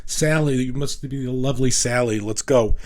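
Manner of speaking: mildly imitated Italian accent, high and charming on Sally. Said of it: "with this beautiful accent".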